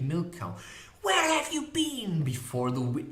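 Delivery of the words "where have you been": high-pitched scolding woman. A narrator's reading. Molly pushing up to the unicorn, scolding in a high voice. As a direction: scold as if at a strayed cow. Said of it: "scolding her as though she had".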